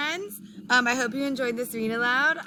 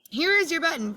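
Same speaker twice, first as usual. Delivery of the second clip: Frog calling out brightly, higher and louder; an eager cry of discovery; cried out; 7 semitones higher, 4 dB louder than usual. A narrator's reading. Frog calling to Toad, finding a button, eager cry. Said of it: "cried Frog".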